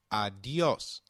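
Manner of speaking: adios with the stress on the last syllable, a-di-OS. Shown as a demonstration. Learner repeats adios, stressing the accented O. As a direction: lean on the OS of adios. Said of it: "the accent on the O in adios".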